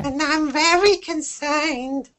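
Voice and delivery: high, slow dramatic voice; Gordon Ramsay voice. Pretend. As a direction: overplay a TV chef. Joke about Ramsay.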